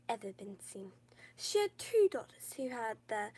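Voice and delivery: storybook reading voice; fairy tale voice. Shown as a demonstration. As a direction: read it like a bedtime story. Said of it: "let me get my fairy tale voice on".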